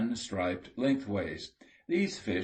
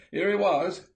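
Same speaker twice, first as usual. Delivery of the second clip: much higher and louder, gleeful; excited shout; 11 semitones higher, 7 dB louder than usual. A narrator's reading. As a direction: yell the find to the whole watch. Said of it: "again shouted the excited Jimmy".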